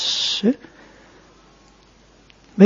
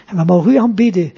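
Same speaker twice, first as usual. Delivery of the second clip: rustig biddende preekstem; prayer. Acted. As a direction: pray calmly and reverently to the Father. Closing prayer after sermon. (plechtig gebed tot God)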